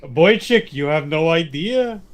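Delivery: lightly voiced Yiddish uncle; mock Yiddish accent. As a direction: play a hammed-up old Jewish uncle, lightly. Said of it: "I could get very Jewish".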